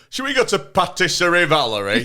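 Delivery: lightly put-on French pronunciation; a hint of a French accent; mock French accent. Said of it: "especially with a northern accent".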